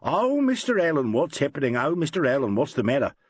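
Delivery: mock the actresses' fussing; mock squealing. Packer mimics the women squealing at Allen. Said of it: "they all start in squealing".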